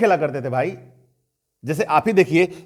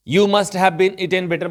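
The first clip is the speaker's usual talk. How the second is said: slow example reading; 3 semitones higher, 3 dB louder, much slower than usual. Shown as a demonstration. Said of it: "teacher reads example slowly".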